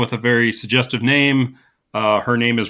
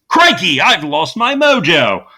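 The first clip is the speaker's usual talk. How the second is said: loud, high, slow British panic; panicked Austin Powers; 5 semitones higher, 5 dB louder than usual. Retold or imitated. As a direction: cry out in hammy dismay.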